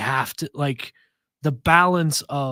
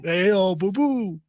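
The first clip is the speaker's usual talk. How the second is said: frat bro; slower than usual. Retold or imitated. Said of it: "real frat boy energy".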